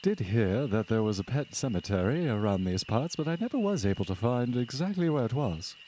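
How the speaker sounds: put-on hearty old-fashioned gentleman, lilting; genteel husband character. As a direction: congratulate them like a gracious host after a hunt.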